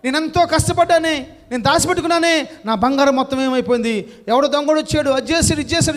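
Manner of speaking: mock-wail like an old man who lost his gold; wailing cry. Old man wailing over his stolen gold, mock lament. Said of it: "ఇక కేకలేయటం ప్రారంభించాడు".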